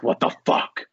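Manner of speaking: breathy, voiceless shock, imitating her; retold freak-out. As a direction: act out her stunned freak-out. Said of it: "freaking out".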